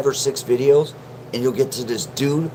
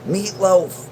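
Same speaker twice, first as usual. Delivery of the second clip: mock yell for meatloaf, higher and slower; retold scream; 7 semitones higher, slower than usual. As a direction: call out for the meatloaf in a hammed-up whine. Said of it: "It's like screaming".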